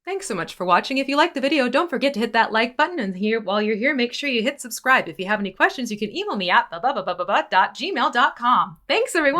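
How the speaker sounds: rote, sing-song end-of-video spiel; video wrap-up patter. Acted. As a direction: rattle off a YouTube sign-off. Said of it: "video wrap-up patter stuck in my head".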